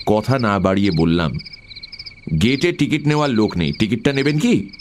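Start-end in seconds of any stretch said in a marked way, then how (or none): 2.4-4.7 higher, businesslike question; polite query. Acted. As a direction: ask the official with lifted pitch. Passenger offering ticket to the official.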